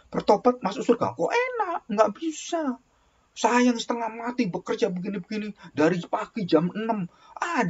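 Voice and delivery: high, mock-outraged grumbling worker; indignant complainer. Preacher mimicking a jealous believer, high indignant complaint. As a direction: play the jealous churchgoer protesting unfairness. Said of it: "Wah, kalau orang ngomong".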